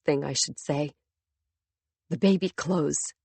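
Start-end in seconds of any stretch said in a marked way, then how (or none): 2.1-3.1 hoarse. Acted. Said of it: "I say hoarsely".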